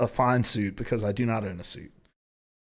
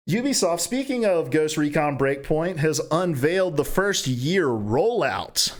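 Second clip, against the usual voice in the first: slow, assured announcer delivery; deliberate, confident news lead-in; 2 semitones higher, slower than usual. Real, not acted. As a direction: say it like you know it, drawing out each phrase. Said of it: "I said it so confidently".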